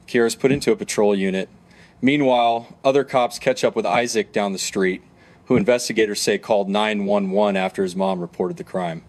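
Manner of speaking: steady true-crime narrator voice; documentary narration. Acted. Narrator guiding viewers through the arrest, documentary narration. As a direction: narrate the case evenly for viewers.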